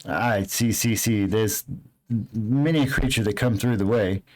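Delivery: sly stranger sizing up lost travelers; lightly voiced shady guide.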